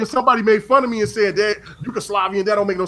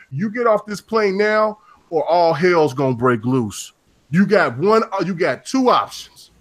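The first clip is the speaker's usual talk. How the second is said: retold stern ultimatum; 3 semitones lower than usual. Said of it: "they said it just like this".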